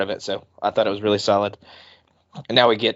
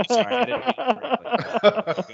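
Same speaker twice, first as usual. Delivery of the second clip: mock apology; 11 semitones higher than usual. Mock apology after being corrected.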